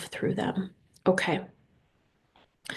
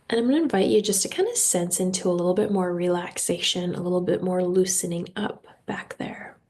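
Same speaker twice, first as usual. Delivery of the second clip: guided meditation. Real, not acted. Host leading listeners through breathing and intentions, guided meditation. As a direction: guide them unhurriedly into relaxation.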